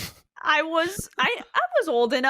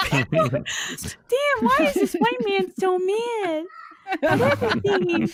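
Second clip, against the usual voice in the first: raised, slow mocking voice; mock shock, pitched up; high mock voice; 6 semitones higher than usual.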